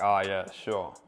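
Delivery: dry sarcastic brush-off; sarcastic agreement. Shown as a demonstration. Coach teases a girl who says she doesn't drink, sarcastic. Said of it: "you can just say".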